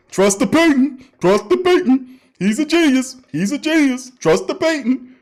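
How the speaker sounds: lightly voiced fan chanting his faith; mock true believer chant. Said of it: "you got people like, uh, Black Suede".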